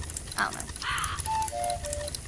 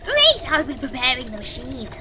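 put-on very old man; 4 semitones lower than usual. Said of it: "So with that voice done".

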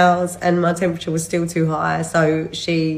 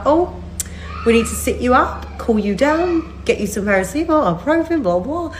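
imitating sister; 7 semitones higher than usual. Nurse sister's brisk checklist.

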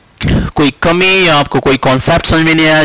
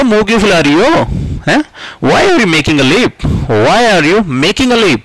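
teasing a sulker; 5 semitones higher, slower than usual. Acted. Teasing a sulking friend, acted.

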